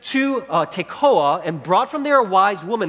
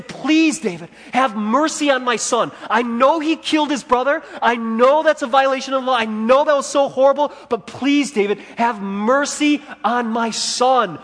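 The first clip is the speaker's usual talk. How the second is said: begging the king, voice pitched up with urgency; pleading mother; 5 semitones higher than usual. Retold or imitated. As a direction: cry out for mercy on your son. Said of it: "She's saying".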